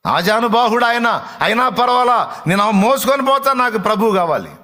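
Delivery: desperate plea. Acted. Mary's desperate plea voiced.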